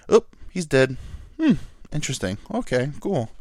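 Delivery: mock-casual, unbothered reaction; nonchalant. Imagining a viewer learning the wrestler is dead, mock nonchalant. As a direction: shrug off the news as mildly interesting. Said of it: "like, so nonchalant".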